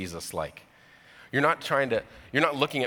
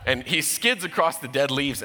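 with a laugh in the voice; amused, quicker retelling; 3 semitones higher, 3 dB louder than usual. Real, not acted. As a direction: let the laugh come through. Same line retold, laughing.

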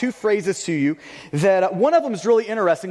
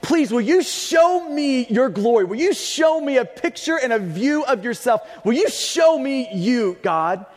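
pleading. Retold or imitated. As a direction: beg to see his glory. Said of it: "pleading with God".

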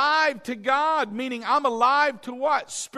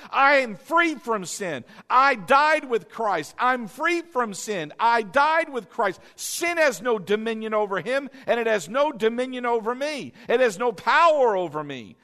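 bold confession; 4 dB louder than usual. Shown as a demonstration. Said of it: "reminding yourself".

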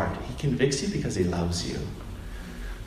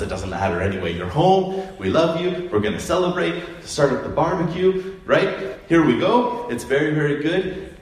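higher, brighter welcome home; joyful welcome; 5 semitones higher than usual. Acted. Father welcoming son home, joyful higher voice. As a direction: throw open your arms and celebrate.

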